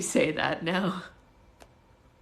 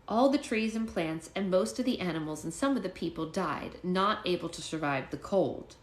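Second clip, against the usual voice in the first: lively storybook reading; story narration. A narrator's reading. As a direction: read it like a bedtime story.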